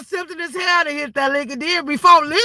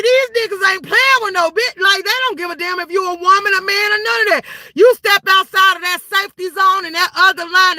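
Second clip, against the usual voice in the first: emphatic warning; 4 semitones higher than usual. Real, not acted. Heated warning speech.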